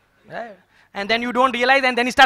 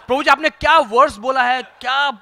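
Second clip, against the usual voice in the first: laughing mock praise; much faster than usual. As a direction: rattle off fake compliments while laughing. Mock praise of a baffling class.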